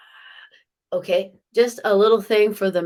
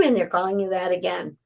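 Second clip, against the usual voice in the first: usual speaking voice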